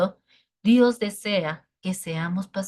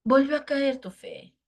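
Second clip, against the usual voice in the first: voice of God; 5 semitones higher than usual. Retold or imitated. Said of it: "Y entonces dice Dios".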